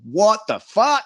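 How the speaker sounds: high, incredulous rising questions; disbelief. Retold or imitated. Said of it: "just going".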